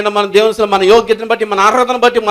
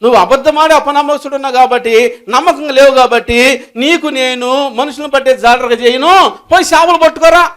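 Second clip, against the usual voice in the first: scolding voice; 3 semitones higher than usual. Retold or imitated. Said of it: "అని చెప్పాను".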